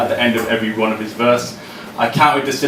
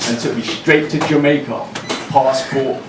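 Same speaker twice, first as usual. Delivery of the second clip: raised, ringing performance poem voice; spoken word poem; 2 semitones higher than usual. Acted. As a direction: deliver each line to the room like a slam poem.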